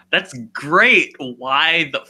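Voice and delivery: high, loud, laughing incredulity; mock Celestia cracking up at the absurdity; laughing disbelief. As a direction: blurt it out through a laugh.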